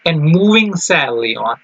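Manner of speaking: slow, measured poem reading; teacher reading verse slowly to the class; slow poem recital. Acted. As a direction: savour each line of the poem. Teacher reads poem aloud.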